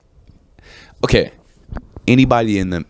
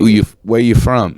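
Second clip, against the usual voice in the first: higher, put-on New York tough-talk accent; New York Italian accent; 3 semitones higher, 4 dB louder than usual. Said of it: "an Italian from New York".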